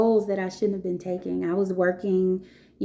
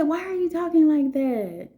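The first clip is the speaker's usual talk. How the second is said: retold scolding question; 7 semitones higher than usual. Teacher scolds sassy girl.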